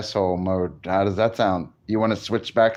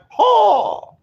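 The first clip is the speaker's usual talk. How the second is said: sharp high yelp of ho; retold loud ho; 6 dB louder than usual. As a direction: belt out a high ho. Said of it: "She was like".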